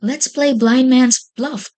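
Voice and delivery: high, slow calling to everyone. Acted. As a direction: call out the game slowly. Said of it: "called Anton".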